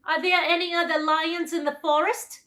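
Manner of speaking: high, loud lion voice; the lion asking; lion's voice. A narrator's reading. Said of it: "he asked".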